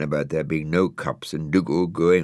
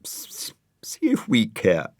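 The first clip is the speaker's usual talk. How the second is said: mild mock sob; 5 semitones higher than usual. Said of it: "said Brian, crying".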